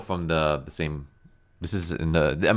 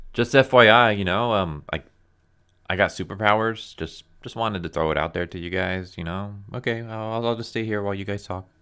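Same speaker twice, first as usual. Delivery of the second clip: mocking Bendis speak; 2 semitones higher than usual. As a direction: parody the dialogue as a casual tech-bro. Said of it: "the fucking Bendis speak".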